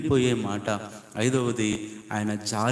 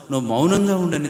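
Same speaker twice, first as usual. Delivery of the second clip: rebuke; 5 semitones higher, 5 dB louder, faster than usual. Retold or imitated. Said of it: "గద్దిస్తే".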